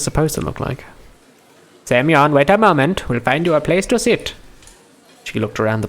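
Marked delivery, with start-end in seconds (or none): 1.8-4.3 put-on raised-pitch Indian-accented character voice; lilting Indian accent. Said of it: "I can't do Russian names in an Indian accent".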